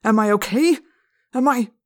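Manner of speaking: rising indignation, building toward a scream; loud angry voice. A narrator's reading. Teacher to pupil who asked if he's okay, loud anger. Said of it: "in a loud, angry voice".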